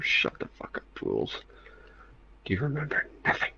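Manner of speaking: raspy, scornful rant at fools; exasperated villain voice. Acted. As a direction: scold them like an ancient being. Voicing an exasperated lore figure.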